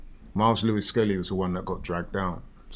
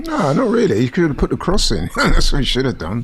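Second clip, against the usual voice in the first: excited; 5 semitones higher, 6 dB louder than usual. Real, not acted. Excited reaction to match play.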